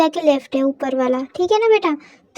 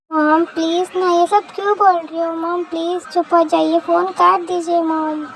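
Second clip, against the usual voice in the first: whiny pleading. Acted. Embarrassed daughter begging mom to hang up, whiny pleading. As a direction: stretch the words out in a plea.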